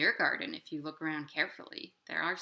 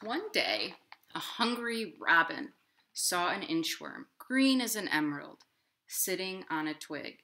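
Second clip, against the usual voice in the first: gentle picture-book narration; reading to children; 3 dB louder than usual. A narrator's reading. Librarian reading a picture book to children, gentle storytime voice. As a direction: read it like storytime.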